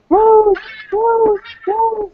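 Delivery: put-on high, eager child calls of the name; kids calling out. Kids at the con calling to Rose Quartz, high excited calls. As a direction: call out Rose like little kids running up.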